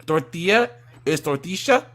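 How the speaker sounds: "tortilla" first with a y sound, then with sh; second "tortilla" said as "tor-tee-sha"; Argentinian sh. Shown as a demonstration. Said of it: "the double L's are a sh".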